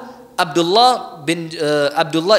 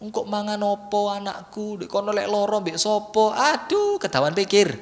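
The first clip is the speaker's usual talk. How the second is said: anxious mother; 3 semitones higher, 4 dB quieter than usual. Retold or imitated. Preacher imitates a mother fearing for her boarding-school son, soft and fretful. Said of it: "mondokkan anak itu ndak tego".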